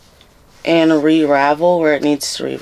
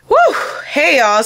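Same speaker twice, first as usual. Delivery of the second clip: shouted greeting; 7 semitones higher than usual. Real, not acted. Excited greeting to viewers.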